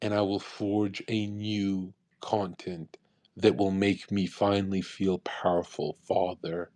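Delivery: a light parody of a devout whisper; mock prayer. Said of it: "laying down saying".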